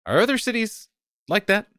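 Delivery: a hint of the curious Fortunate. The Fortunate asking about other cities, lightly voiced. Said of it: "The Fortunate asks".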